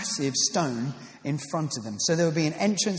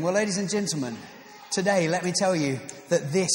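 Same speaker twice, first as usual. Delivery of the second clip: mock salesman. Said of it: "not a sales pitch".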